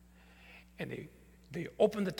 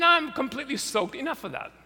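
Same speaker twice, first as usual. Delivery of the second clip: laughing; 8 semitones higher, 8 dB louder than usual. Retold or imitated. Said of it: "I said".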